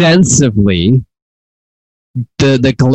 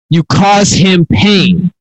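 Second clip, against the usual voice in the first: raised, slow, emphatic mock shout; God shouting; 4 semitones higher, much slower than usual. Preacher voicing God shouting at the listener, mild shout. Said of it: "God essentially shouting at you".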